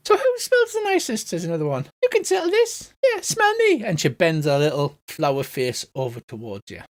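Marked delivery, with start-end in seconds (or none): 0.1-1.3 small, very high squeaky voice; squeaky flower. Acted. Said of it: "a small squeaky voice". 2.0-3.8 small, very high squeaky voice; squeaky flower. Acted. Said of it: "a small squeaky voice".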